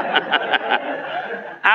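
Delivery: breathy laugh. Real, not acted. Laugh after inviting breath sound.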